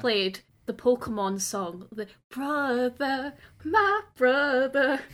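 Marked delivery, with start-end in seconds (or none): 2.3-5.0 mock dramatic. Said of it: "is like".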